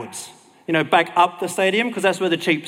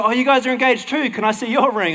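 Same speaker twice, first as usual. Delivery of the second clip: retold excited girlish gushing, higher pitch; excited fiancée; 6 semitones higher than usual. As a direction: gush lightly, as an excited fiancée asking. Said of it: "they were all excited".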